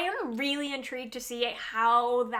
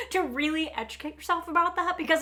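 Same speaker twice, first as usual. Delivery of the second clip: laughing; 5 semitones higher, faster than usual. Real, not acted. Laughing at the learning joke.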